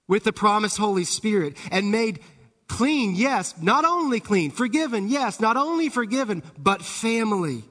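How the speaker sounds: building, emphatic sermon delivery; impassioned preaching. Real, not acted. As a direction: preach it in driving phrases, lifting the pitch. Preaches the gospel with force.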